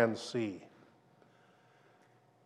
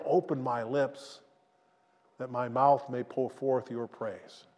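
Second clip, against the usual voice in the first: prayerful psalm reading. Acted. Preacher reads David's psalm of repentance, humble prayer. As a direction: pray it humbly, asking for mercy.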